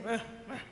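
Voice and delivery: imitated grumpy border guard grunts. Security guy answering a nervous traveller, mock grumpy grunts. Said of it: "so grumpy".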